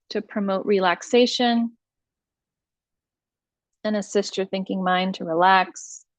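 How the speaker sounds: measured meditation voice, long pauses between instructions; guided meditation. Acted. Teacher leading listeners through iRest practice, guided meditation voice.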